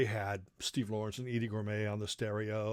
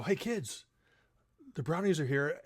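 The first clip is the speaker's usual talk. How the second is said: dad announcing; 4 semitones higher than usual. Retold or imitated. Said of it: "he'd be go".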